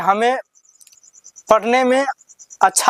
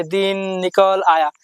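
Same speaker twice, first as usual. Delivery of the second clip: wrong way, rushed. Shown as a demonstration. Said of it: "जब आप ऐसे नहीं पढ़ेंगे".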